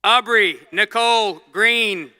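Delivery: cheerleader voice. Acted. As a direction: cheer the name out like at a game. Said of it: "You want me to use the cheerleader voice".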